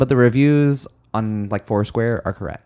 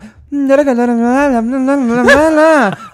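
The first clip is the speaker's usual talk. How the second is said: high loud mock-accent babble; accent gibberish; 10 dB louder than usual. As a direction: babble like a singer with a Swedish-English accent. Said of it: "with an English, Swedish accent".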